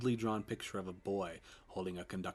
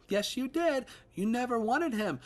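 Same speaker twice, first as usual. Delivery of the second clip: very high, loud accusing voice; shrieking accusation; 7 dB louder than usual. Acted. Ghost accusing the father, high and loud. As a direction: stab at him with every word.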